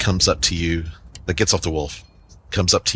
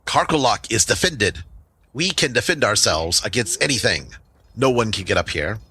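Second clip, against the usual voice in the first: lightly voiced, slightly raised goblin boast; defiant goblin chief; 3 semitones higher than usual. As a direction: dismiss the threat with mild chiefly pride.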